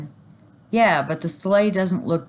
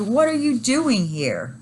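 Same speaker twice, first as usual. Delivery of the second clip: astonished; 7 semitones higher, slower than usual. A narrator's reading. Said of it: "I shouted".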